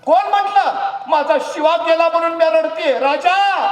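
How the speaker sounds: high, loud sharp retort; a mother's loud, high, fierce retort. Acted. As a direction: snap back at the king. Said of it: "तशी ताडकन शिवा काशिदांची आई म्हणाली".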